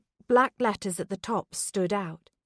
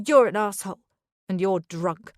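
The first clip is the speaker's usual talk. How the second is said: angry; 5 dB louder than usual. Acted. Beth insults Charlie in quarrel.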